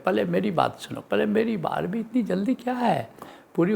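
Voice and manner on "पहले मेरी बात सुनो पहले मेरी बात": mock impatient butting-in; hurried interrupting. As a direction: imitate someone pushing to be heard first, pitch rising. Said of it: "बात काट करके बोलते हैं". (हड़बड़ी में बात काटने की नकल)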